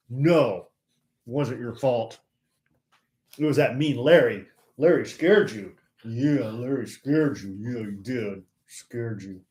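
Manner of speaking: fading cooing to the pet; soothing dog talk. Real, not acted.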